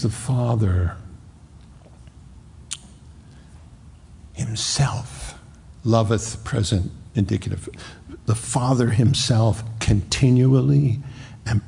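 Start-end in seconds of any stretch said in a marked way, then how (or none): 0.0-6.4 hushed reverence. Real, not acted. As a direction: drop to a breath, whisper the word himself. Preacher hushes on key phrase.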